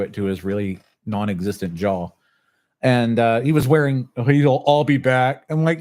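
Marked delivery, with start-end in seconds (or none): 4.3-5.4 slow, louder mock Terminator line; Arnold Schwarzenegger voice. Quoting the biker's threat as a slow, louder Terminator line. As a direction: growl it slowly like a movie threat. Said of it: "freaking Arnold Schwarzenegger?".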